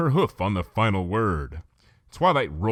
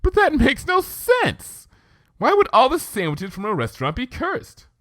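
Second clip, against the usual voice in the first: stifling laughter; 6 dB louder than usual. A narrator's reading. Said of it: "stifled another wave of laughter".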